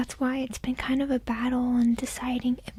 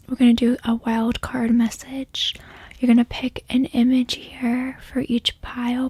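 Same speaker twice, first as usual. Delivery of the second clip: whispering. Real, not acted. ASMR tarot whisper.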